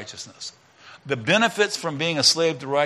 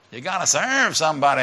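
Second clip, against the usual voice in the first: put-on sing-speak it like an old record, lightly; preacher briefly slipping into a singer's voice; a singer; 3 semitones higher than usual. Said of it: "That's how he sounds".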